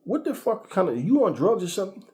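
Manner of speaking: retold angry confrontation.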